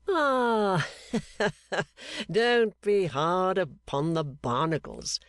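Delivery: a laugh bursting out, then words said slowly through it. A narrator's reading. Gowan laughing off Clennam's jab at the Barnacles. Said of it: "said Gowan, laughing afresh".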